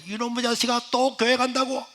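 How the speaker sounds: high, scolding disbelief; lightly voiced furious mother; a hint of a scolding mother. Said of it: "하면서 욕을 하는데". (다시 교회 가는 아들을 꾸짖는 어머니)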